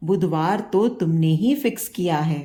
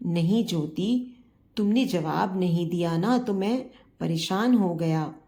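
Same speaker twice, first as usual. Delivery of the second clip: emotional. Acted. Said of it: "भावुक स्वर में कहा".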